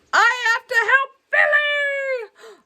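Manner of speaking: squeaky, urgent creature cry; a tiny monster rushing to help; high little monster voice. Acted. Mini monster wants to help Billy, high and urgent.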